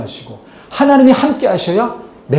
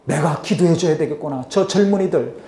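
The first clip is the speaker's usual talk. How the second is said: quiet inner resolve; 4 semitones lower, 6 dB quieter than usual. Retold or imitated. Voiced resolve, soft inner thought.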